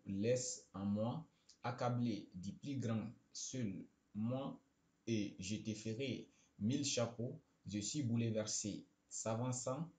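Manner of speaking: halting line-by-line reading, slow in places; poem read aloud. Real, not acted. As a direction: read out the poem in short, separated phrases. Reads out generated poem. (lecture de poème, hachée et posée)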